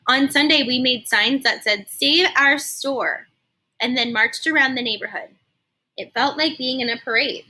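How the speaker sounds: put-on lively read-aloud narration for kids; expressive storybook reading for a class; story narration. A narrator's reading. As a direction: tell it like storytime on the rug. Teacher reads story aloud.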